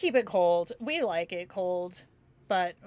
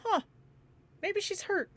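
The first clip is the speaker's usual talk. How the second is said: mocking husband; 9 semitones higher, 6 dB quieter than usual. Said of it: "he's just like".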